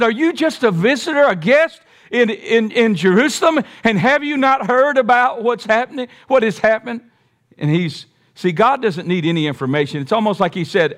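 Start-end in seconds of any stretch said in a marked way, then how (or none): 0.0-7.0 high-pitched, insistent disbelief; acted-out astonished disciples; incredulous questioning. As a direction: ask as if he must be the only one who missed it. Acts out disciples questioning the stranger.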